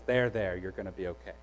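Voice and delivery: soft, low tender murmur fading away; soothing. Retold or imitated. The Holy Spirit holding and comforting us, soft tender murmur. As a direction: comfort like a gentle parent.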